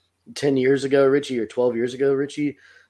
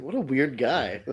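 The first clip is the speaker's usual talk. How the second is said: amused quote; 3 dB quieter, slower than usual. Retold or imitated. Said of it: "And then he's like".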